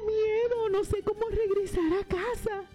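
voz aguda de pollito con miedo; pollito asustado. Acted. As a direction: habla como un pollito perdido y asustado. (pollito asustado con voz aguda)

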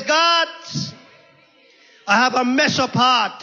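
David's prayer in a preacher's cadence, halting between phrases; preached prayer. Acted. Preacher voicing David asking God for a clean heart, earnest preaching. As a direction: pray it out before a congregation, phrase by phrase.

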